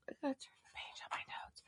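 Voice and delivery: quick whisper, under her breath; whispered aside. Real, not acted. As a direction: whisper it fast to yourself while flipping pages. Aside while turning notes.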